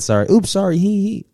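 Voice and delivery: high, loud, giggly "Oops, sorry"; mock giggly date. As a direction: ham up her careless giggle. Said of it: "She said".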